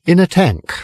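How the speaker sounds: put-on slurred, high drunken storyteller; tipsy pub boast, a touch slurred; drunk Arthur. Drunk Arthur tells his story.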